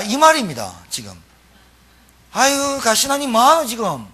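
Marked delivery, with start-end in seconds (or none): 2.3-4.1 mocking taunt in a Gyeongsang dialect, pitched higher; a lightly voiced Gyeongsang giant jeering at a boy. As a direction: sneer like a Gyeongsang bully. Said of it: "경상도 말로".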